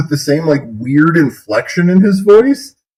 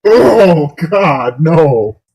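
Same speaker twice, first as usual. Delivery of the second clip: laughing protest; 2 semitones higher, much slower than usual. Real, not acted. Cringing, begging the singer to stop.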